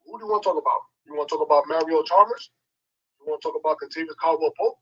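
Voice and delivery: distant off-mic voice; phone held away. Real, not acted. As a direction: far from the phone. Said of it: "you sound like you're far away from the phone".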